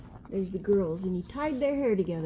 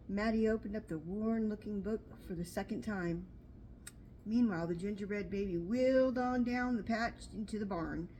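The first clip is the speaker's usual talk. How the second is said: storybook reading. A narrator's reading. Reading picture book aloud.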